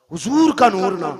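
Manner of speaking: high, loud burst of preaching; impassioned call. Real, not acted. Preacher to congregation about the Prophet's light, impassioned call. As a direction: ring it out loudly to the crowd. Preacher suddenly raises voice to crowd.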